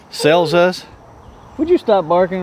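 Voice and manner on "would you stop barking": yelling across the room. Real, not acted. Scolding the barking dog.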